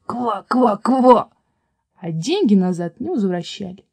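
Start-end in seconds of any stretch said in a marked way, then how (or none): 0.0-1.3 insistent frog croaks; stubborn chorus of croaks; croaking frogs. A narrator's reading. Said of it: "всё продолжали кричать".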